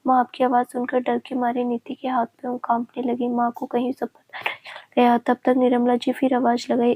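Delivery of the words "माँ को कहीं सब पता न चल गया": a frightened inner thought, whispered; fearful whisper. Acted. Niti hearing her mother call at night, whispered in fear. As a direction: breathe the worry out under your voice.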